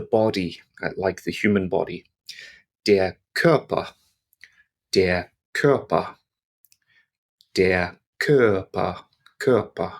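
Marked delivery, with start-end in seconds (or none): 2.8-9.9 "Körper" with a short "ö" and the "r" almost silent; short German Ö. Shown as a demonstration. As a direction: keep the "ö" in "Körper" short, swallow the "r". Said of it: "So it's nice and short".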